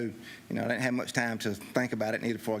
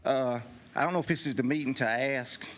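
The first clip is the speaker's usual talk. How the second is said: out of breath. Real, not acted. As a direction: still winded, short of air. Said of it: "I'm out of breath, I run up here".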